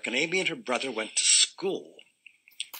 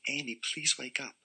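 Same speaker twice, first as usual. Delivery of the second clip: soft, sweet coaxing; very nicely; 2 semitones higher, 6 dB quieter than usual. Acted. Mother coaxing sleeping daughter, soft and sweet. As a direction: coax her awake gently. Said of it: "said very nicely".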